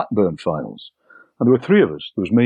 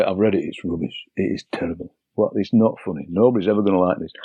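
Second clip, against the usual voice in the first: gloomy co-writer; 2 semitones lower, faster than usual. Retold or imitated. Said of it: "he'd ring up and say".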